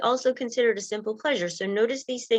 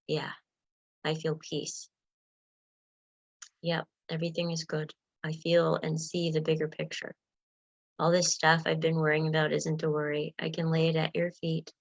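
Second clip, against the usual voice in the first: calm, soft inner voice; 3 semitones lower, 3 dB quieter than usual. Pretend. Voicing the calm wiser self.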